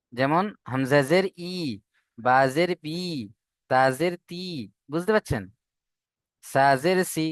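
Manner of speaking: ই, পি, তি, সি with a short clipped i; short i vowel. Shown as a demonstration. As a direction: read ই, পি, তি, সি quick, no stretch. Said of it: "হস্য ইর মতো". (জেরের ছোট ই উচ্চারণ)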